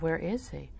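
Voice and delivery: soft, careful question. Retold or imitated. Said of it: "lower your voice".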